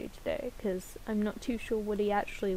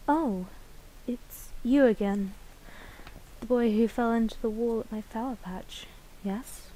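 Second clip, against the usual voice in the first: put-on flower girl voice, louder take. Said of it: "vocal lines for that flower girl".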